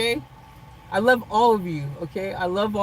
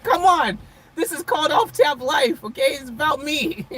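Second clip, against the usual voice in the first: mock self-centred; 4 semitones higher than usual. Vlogger teasing her live chat, mock self-centred. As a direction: ham up being all about yourself. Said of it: "I'm just being funny".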